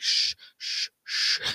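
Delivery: put-on whispered shh to hush kids; teacher shushing whisper. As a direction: hush a noisy class in a whisper. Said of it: "their teachers from school are just shushing them".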